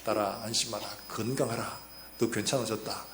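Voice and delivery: low, softly spoken pronouncement; Jesus's proclamation. Retold or imitated. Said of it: "예수님이 그에게 놀라운 선포를 하십니다".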